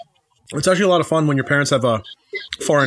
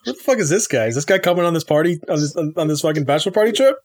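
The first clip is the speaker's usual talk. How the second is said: retold disbelief; 3 semitones higher than usual. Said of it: "I was like".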